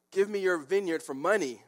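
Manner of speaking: high, petulant mock complaint; stomping tantrum. King telling his wife of the refusal, petulant tantrum. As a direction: whine it out like a foot-stamping child. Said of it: "stomping his feet there".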